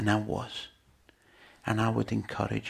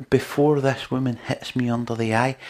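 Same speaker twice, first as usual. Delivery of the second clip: quoted judge; 6 dB louder than usual. Retold or imitated. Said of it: "do you know what it says".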